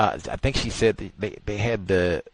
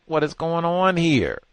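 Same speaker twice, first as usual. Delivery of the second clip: put-on confused boy voice; 4 semitones higher than usual. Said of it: "sounded like just confused".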